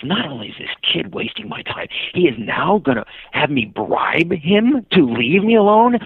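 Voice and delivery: high, incredulous, slowing as it builds; mock indignation. Cyclist realizing the kid wants a bribe, mock indignant. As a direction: stretch it out in rising disbelief.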